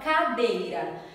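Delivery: slow "cadeira" with each syllable apart; syllables again. Shown as a demonstration. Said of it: "Olha só aqui". ("cadeira" devagar, sílaba por sílaba)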